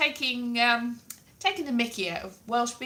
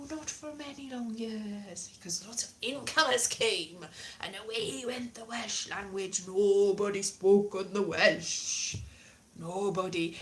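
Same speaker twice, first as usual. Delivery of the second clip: mock Welsh lament; 2 semitones lower than usual. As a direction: intone it mournfully in a Welsh lilt. Mock-tragic lament for lost language.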